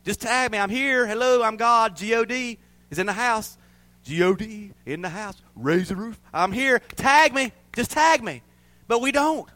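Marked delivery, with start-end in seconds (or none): 0.0-8.4 playful God cheering from the ropes; hyped God. Acted. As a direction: call out like a wrestling hype man. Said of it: "That's what God is saying".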